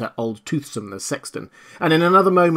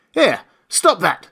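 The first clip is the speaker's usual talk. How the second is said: alarmed call; 8 semitones higher, 5 dB louder, slower than usual. A narrator's reading. Constable sees stranger undressing.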